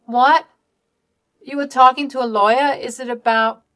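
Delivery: high, loud startled question; shocked. Acted. Daughter hearing about the lawyer, shocked. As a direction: blurt it out in alarm.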